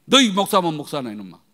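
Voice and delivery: loud scolding of an underling; acted-out angry rebuke; retold shouting. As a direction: berate him loudly, starting hard. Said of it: "막 소리를 질렀더니".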